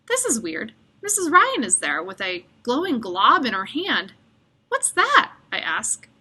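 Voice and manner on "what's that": sharp high curious question; surprised question. A narrator's reading. Curious kid asking the nurse, surprised. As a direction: ask it with wide-eyed surprise. Ravi asks about glowing goo.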